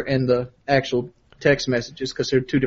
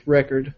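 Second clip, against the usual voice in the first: "record" stressed on the first syllable; corrected pronunciation. Shown as a demonstration. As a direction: say "record" as the noun, REC-ord. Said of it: "I think I mispronounced it".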